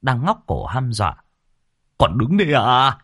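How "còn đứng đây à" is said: high, loud, hurried orders to get out; urgent yelling. A narrator's reading. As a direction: bark at her to grab the child and run. Husband urging wife to flee snake. (quát giục gấp gáp, giọng cao và to)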